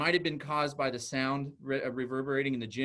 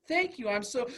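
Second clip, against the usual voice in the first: high-pitched imitation of a grateful child; sweet child voice, about to be cut off; little girl; 9 semitones higher than usual. Child replying sweetly before outburst.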